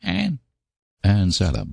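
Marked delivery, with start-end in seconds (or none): 0.0-0.4 put-on high-pitched small boy's plea; pleading. A narrator's reading. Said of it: "a pleading voice said".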